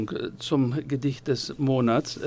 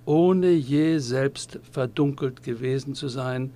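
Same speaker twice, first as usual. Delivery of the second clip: solemn tribute reading. Acted. Reads out a written tribute.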